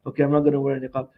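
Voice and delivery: quick, low mock agreement; imitated meek compliance. Imitating Muslims giving up the niqab, meekly compliant. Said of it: "We're sucking up to everything".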